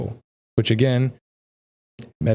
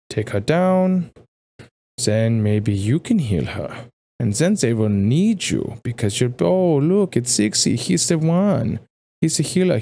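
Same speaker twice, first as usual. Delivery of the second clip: scheming villain; 4 semitones higher than usual. Acted. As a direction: lure him into betrayal, savoring it. Absalom tempting Zixi to betray.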